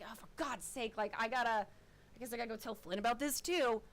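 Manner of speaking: a weary sigh of frustration; exasperated muttering. Acted. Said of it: "And he's just like".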